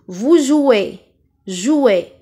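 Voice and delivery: "jouez" ending in closed é. Shown as a demonstration. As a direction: model the final é of "jouez". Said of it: "La deuxième syllabe qui contient E". (« jouez » avec é fermé final)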